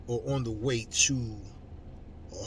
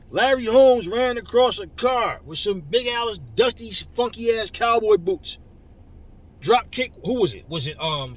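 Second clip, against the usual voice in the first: higher, louder, escalating tirade; heated rant; 9 semitones higher, 8 dB louder than usual. Real, not acted. Vlogger rants at fans about old fights, higher and louder. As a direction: build the outrage story by story.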